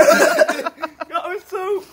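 slow, loud, laughing; can barely speak for laughing; stifled giggles. Real, not acted. Laughing hard.

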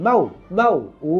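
মাউ said softly and quickly. Shown as a demonstration. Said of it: "নরম করে তাড়াতাড়ি বলতে হবে".

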